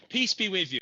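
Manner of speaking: high, loud churchy greeting; priest's greeting. Retold or imitated. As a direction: call it out like a priest at Mass. Imitating priest's greeting, raised.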